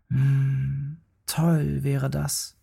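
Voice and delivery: slow, wistful cub musing to himself; dreamy little bear. Acted. Little bear dreams of apples falling into baskets, slow and dreamy. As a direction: savour the daydream slowly.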